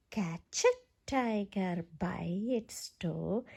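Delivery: hushed, secret counting whisper. Shown as a demonstration. Reader whispering a line of the chant to children.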